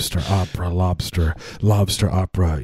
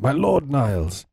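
high, drawn-out mock address; stretched, put-on theatrical voice; sitcom brother; 5 semitones higher, slower than usual. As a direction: imitate the sitcom brother, pitched up and slow. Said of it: "why did he call him my lord".

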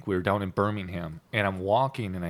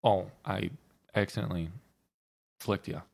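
halting, softer imitation of a sad apology; saddest little apology; 3 semitones lower, 4 dB quieter than usual. Imitating a friend's needless apology, mildly sad and halting. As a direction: imitate a sheepish confession, pausing between phrases. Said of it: "it's always the saddest thing".

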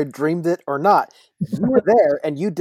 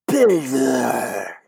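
mumbled, words swallowed; 4 semitones lower than usual. Acted. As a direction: mumble the title unclearly. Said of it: "he won't say it more clearly".

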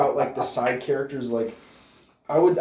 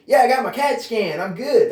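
mock casual coach; 10 semitones higher, 7 dB louder than usual. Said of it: "Shirt's tucked in".

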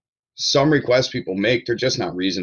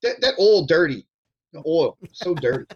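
mock Dundalk accent; 6 semitones higher than usual. Joining in the Dundalk customer bit.

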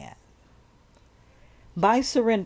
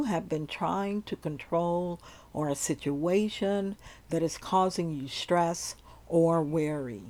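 sleep story narrator. Acted. Leads a surrender meditation.

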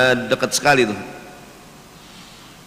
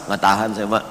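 low, softly choked-up act; mock sad; 7 semitones lower, 5 dB quieter, faster than usual. Moviegoer answers Mbak before the film starts, mock sad. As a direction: play at being too moved to cope. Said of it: "Sedih, ya".

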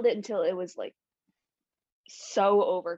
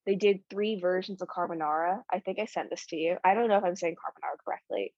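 talking around a retainer; words slurred by a retainer in the mouth; wearing a retainer; faster than usual. Real, not acted. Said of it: "I have my retainer in".

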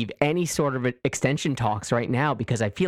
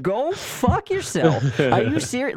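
much higher, slower, louder mock fury; indignant outburst; 10 semitones higher, 4 dB louder than usual. Stroman rejecting a lowball offer, mock angry and high. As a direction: spit it back in outrage. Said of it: "If I'm Marcus Stroman, I'm like".

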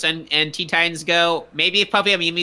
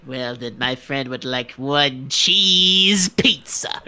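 low, slow, breathy whisper; whispered Tim Curry impression; 4 semitones lower, slower than usual. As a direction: whisper it like a theatrical villain. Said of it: "I'd say".

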